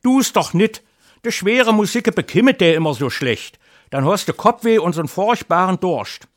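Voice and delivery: wife lamenting to her husband, high and plaintive; wailing wife. Acted. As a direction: whine it like a worried wife. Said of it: "jammerte meine liebe Frau".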